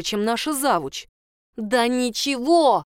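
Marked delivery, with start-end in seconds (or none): 1.6-2.8 mild mock yell. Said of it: "вдруг заорала я".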